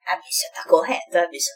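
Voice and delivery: whispered gossipy aside. Retold or imitated. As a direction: whisper it like a secret. Private aside about stern doctor.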